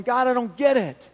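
imitated bewildered protest, pitched high; questioning. Job questioning God after his losses, voiced as high protest. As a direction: plead upward in loud, high confusion. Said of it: "Job began to even question".

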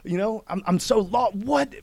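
high, loud, laughing plea; laughing disbelief. Retold or imitated. A man laughing in disbelief at God's sudden answer, high and loud. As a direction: laugh through bewildered questions at God. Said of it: "I said".

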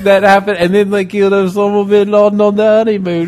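mock British accent. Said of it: "I got this accent".

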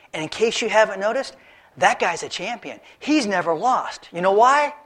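lightly voiced incredulous ruler; king warning David about the champion, mildly scoffing; skeptical king.

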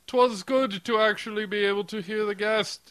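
put-on posh British accent. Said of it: "upstanding British accent".

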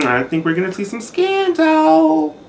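whispered secret with a teasing lilt; conspiratorial whisper to viewers about scandal; gossipy whisper. Acted. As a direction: lean in and whisper the juicy gossip.

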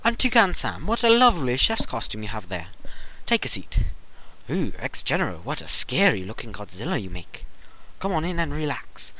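sweet high fussy hostess; fairy godmother voice. Acted. Fred hosts guests in voice.

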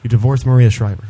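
petulant defiant whine; whiny child. Acted. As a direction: talk back like a sulky kid. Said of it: "Stop whining".

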